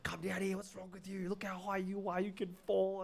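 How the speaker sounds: high-pitched imitation of grandma; mock scolding grandma. Grandma calling grandson down from high tree, mock scolding. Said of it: "She's like".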